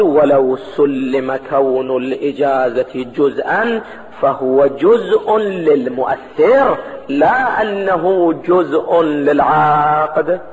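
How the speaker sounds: very slow, stretched scholarly recitation; slow formal reading, vowels held long; measured text reading. Acted. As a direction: read the text out slowly, drawing out key words. Reads the source text aloud.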